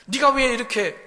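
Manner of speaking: preacher voicing the psalmist pinching himself; self-rebuke. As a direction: snap at yourself for sitting slumped. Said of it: "자기를 자기가 꼬집습니다".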